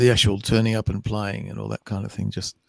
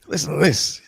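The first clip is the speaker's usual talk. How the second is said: whisper; 5 semitones higher than usual. Retold or imitated. Savouring hearing home accent.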